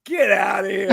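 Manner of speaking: mock yell of disbelief; disbelieving shout. Bandmates scoffing at news of a star visitor, shouted disbelief.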